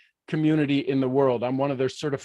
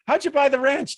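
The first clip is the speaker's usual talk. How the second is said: high, louder mock question from a doubting friend; 11 semitones higher, 4 dB louder than usual. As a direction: toss it up high like a nosy buddy. Friends' mock question, acted quote.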